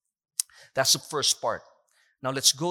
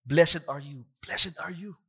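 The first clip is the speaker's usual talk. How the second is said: happy Jesus tone; 4 dB louder than usual. Shown as a demonstration. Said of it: "yung tone niya masaya".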